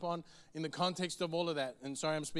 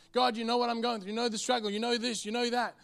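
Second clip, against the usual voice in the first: whining prayer; 4 semitones higher, 3 dB louder than usual. Acted.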